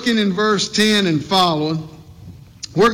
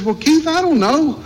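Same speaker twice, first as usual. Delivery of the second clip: imitating Miss Dee Dee; 4 semitones higher than usual. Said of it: "she says".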